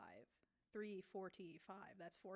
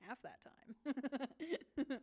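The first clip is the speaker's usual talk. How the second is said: very slow, higher, louder; amazed; 4 semitones higher, 7 dB louder, much slower than usual. Real, not acted. Streamer amazed the piece took half the time. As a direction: stretch it out in amazement.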